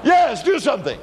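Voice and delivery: high, loud desperate plea. Retold or imitated. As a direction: beg for help in a panic. Panicked neighbor begs for help.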